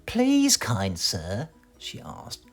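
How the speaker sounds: put-on high, pleading old woman voice; old washerwoman. Washerwoman asks Mister Mean for help, pleading. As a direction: beg sweetly as a frail old lady.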